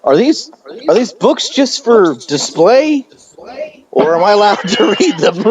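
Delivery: exaggerated naive asking, rising high; mock dim patron. Mocking a patron asking at library.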